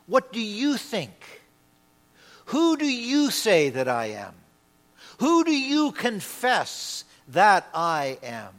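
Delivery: "you" singled out with stress in each question; emphatic, personal YOU. Acted. Preacher voicing Jesus questioning his disciples, "you" pointedly stressed. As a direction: press each question home on the word "you". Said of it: "He is now personalizing it".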